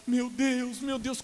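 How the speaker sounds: high, mock despairing wail; imitated desperate crying. Fellow patient reacting to his diagnosis, imitated desperation. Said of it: "começou a chorar desesperado".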